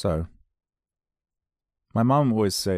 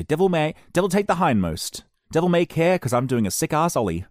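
higher, louder reckless skater dude; hammed-up skater bravado, higher and louder; mock skater talk; 8 semitones higher, 4 dB louder than usual. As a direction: ham up a carefree skater boasting. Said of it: "That's how a skater talks".

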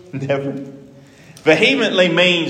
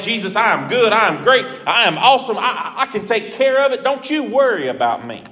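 proud boasting; 4 semitones higher than usual. Retold or imitated. Peter boasting proudly to Jesus.

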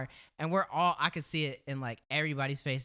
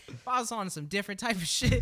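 chuckling through the words; laughing scolding; 4 semitones higher than usual. Retold or imitated. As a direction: scold him while laughing.

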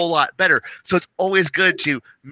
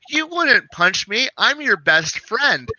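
much higher, slow mock whine; pleading player; 6 semitones higher, slower than usual. Player pleading with a stranger NPC, slow high mock whine. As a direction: whine it like a player begging for mercy. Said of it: "they can't just go".

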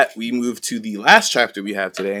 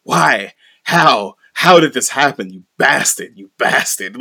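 mock outraged freak-out, starting loud; 2 semitones higher, 6 dB louder, slower than usual. Schemer walking away after bad news, mock freaking out. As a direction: act out losing it, with mild force. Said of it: "starts freaking out again".

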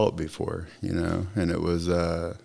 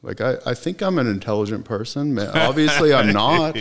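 exasperated self-questioning; 4 semitones higher than usual. Retold or imitated. Man asking himself in the cop car, exasperated. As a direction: build a frustrated plea to yourself.

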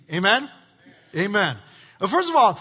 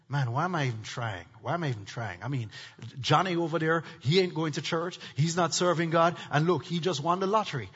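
a hint of a whining, sulky David, much softer and lower; whiny David; 6 semitones lower, 6 dB quieter than usual. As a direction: mumble it like a sulking believer. David's whining thoughts voiced.

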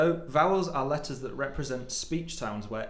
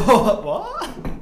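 laughing disbelief; 12 semitones higher, 12 dB louder than usual. Real, not acted. Disbelief at vowel question.

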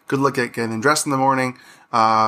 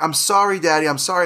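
put-on child's apology; 3 semitones higher than usual. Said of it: "She's like".

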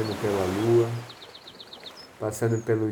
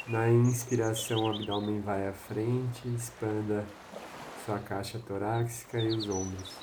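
soothing spa whisper; 5 dB quieter than usual. Acted. Breathing guidance, voice drops softer.

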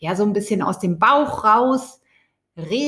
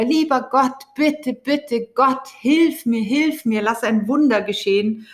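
lightly acted cry for a miracle; mock pleading yell; 4 semitones higher than usual. Drowning man ignoring the life ring, mild mock plea. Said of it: "er schreit wieder".

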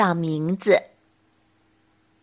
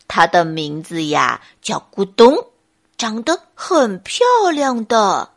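lightly voiced bear, proud of himself; smug bear; 3 semitones lower, 4 dB louder than usual. Bear shows off his name to friends, proudly. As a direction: present it with a touch of triumph. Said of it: "笨熊得意洋洋地说".

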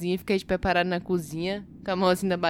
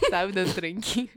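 ordinary talk, nothing marked

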